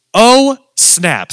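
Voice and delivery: high, drawn-out oh of shock; mock-startled retold gasp of words; stunned exclamation. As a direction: let it hit like caught off guard. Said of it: "she said two words".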